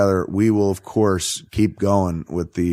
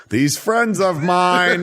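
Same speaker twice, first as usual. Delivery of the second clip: mock Batman aside; 10 semitones higher, much slower than usual. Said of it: "be like".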